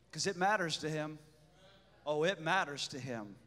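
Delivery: soft, low, tender reverence; hushed worship. Acted. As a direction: murmur it reverently.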